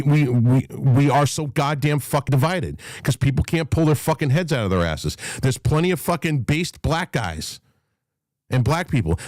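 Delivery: ordinary delivery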